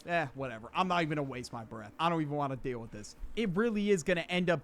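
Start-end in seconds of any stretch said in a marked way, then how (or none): 0.1-3.2 quick, understated brush-off; mildly fed-up, hurried muttered aside; dismissive self-talk. Retold or imitated. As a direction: shrug it off to yourself. Voicing his dismissive remark to himself.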